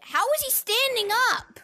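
loud, high disbelief; surprised. Real, not acted. Astonished at glitch.

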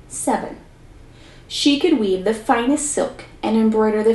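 lively read-aloud storyteller voice; story narration. A narrator's reading. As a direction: tell the fairy tale to a class, expressively. Teacher reads story aloud.

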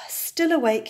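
weary sigh then words. Acted. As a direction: sigh it out, tired. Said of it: "he said and sighed".

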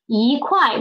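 一 rising before a falling 块; slow teaching 一块, second tone then fourth. Shown as a demonstration. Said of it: "so it changed into second tone".

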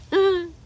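short high, loud sob-laugh; tearful laugh. Real, not acted. Overwhelmed by YouTube pressure, tearful laugh. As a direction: let out a burst between crying and laughing. Breaks down after freaking out.

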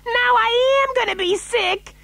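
very high wail; queasy yell. A narrator's reading. Mother after hearing of collisions, yelling queasily. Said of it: "yelled Missus T V".

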